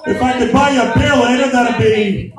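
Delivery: a hint of Tony the Tiger. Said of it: "I was doing Tony the Tiger".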